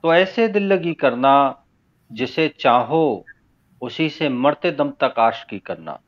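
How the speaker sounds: measured, unsung ghazal recital; spoken verse recitation. Acted. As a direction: recite phrase by phrase with deliberate pauses. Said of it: "मैं तहत में ही पढ़ता हूँ".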